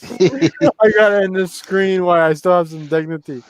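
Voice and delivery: slurring a little, tipsy. Real, not acted. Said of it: "freaking wasted right now".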